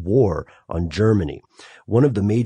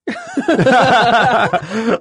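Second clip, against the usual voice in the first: laughter; 14 semitones higher, 6 dB louder than usual. Real, not acted. Laughing at cohost's remark.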